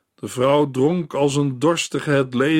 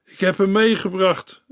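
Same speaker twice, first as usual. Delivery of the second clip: higher, eager cry; exclaiming girl; 6 semitones higher than usual. Acted. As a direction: announce him with relief. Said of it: "riep de dochter uit".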